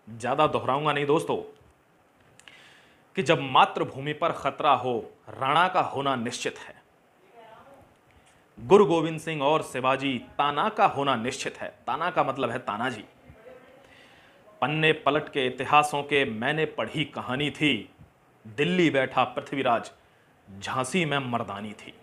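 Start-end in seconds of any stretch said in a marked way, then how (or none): 3.2-11.7 measured, emphatic verse delivery; declaimed patriotic poem; patriotic poem recitation. Acted. 14.6-21.9 measured, emphatic verse delivery; declaimed patriotic poem; patriotic poem recitation. Acted.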